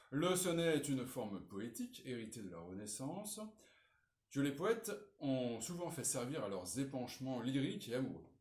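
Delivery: measured read-out of a model essay; reading aloud. Acted. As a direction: read the introduction out clearly for students. Reads model introduction aloud. (lecture à voix haute)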